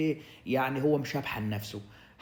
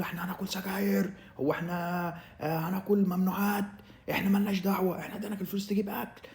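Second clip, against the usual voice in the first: mock indignant friends; 5 semitones higher than usual. Friends scold him over money.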